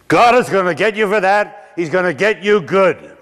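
mock threatening yell at the child; retold scream. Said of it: "My mother screamed".

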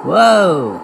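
high, loud startled whoa; shout. Acted. Mickey shouts as the wind hits the farm. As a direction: yell it against the wind. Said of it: "shouts Mickey".

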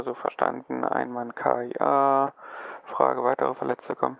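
crisp radio report; clipped callsign radio procedure; military radio. Acted. (militärischer Funkspruch)

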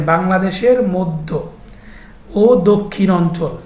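slow, weighty stress on মধ্য and দক্ষিণ; teacher's emphasis. Shown as a demonstration. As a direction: draw out বাংলাদেশের মধ্য ও দক্ষিণ অঞ্চল for note-taking. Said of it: "মনোযোগ দেন".

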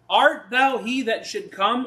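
lightly voiced doubting John; pleading question. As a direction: ask it slowly as an anxious prisoner. Reading John's question aloud.

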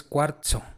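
cuarzo with ts after the r; Italian z demo. Shown as a demonstration. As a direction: say cuarzo softly with ts. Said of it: "pero es cuarzo".

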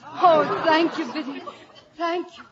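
high, laughing gratitude; laughing thanks. Acted. Young man thanks old Biddy, laughing high. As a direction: bubble over with laughter as you thank her.

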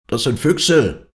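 high, drawn-out exclamation; crying out. A narrator's reading. Bell spots animals around the sledge, crying out. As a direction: call out the discovery, slow and high. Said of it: "rief Bell aus".

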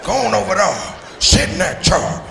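mock the St. Louis locals' R-heavy accent. Comedian mocking St. Louis locals, exaggerated St. Louis accent. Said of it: "I thought I landed in a land of R's".

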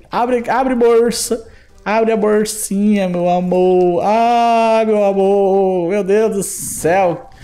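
slow, drawn-out sweet talk; mock lovey coaxing. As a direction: coo slowly at a beloved object. Coaxing the bag, calls it love.

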